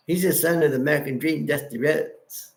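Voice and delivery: lightly attempted wrestler impression; a hint of a badly imitated accent; Dusty Rhodes. Streamer naming a wrestler's father, in a lightly attempted Dusty accent. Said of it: "That was my horrible Dusty accent".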